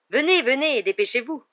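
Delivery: calling out. A narrator's reading. Hagrid hurrying his pupils to class, calling out. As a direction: hurry the group along, loud and high. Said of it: "lança-t-il".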